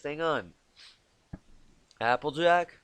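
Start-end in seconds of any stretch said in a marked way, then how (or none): 2.0-2.8 put-on Southern accent. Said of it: "Oh, I can do this".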